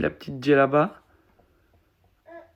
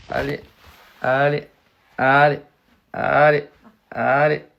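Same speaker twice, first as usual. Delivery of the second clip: cheering louder and louder; building encouragement; 10 dB louder than usual. Real, not acted. Mother cheering the baby to stand, growing louder.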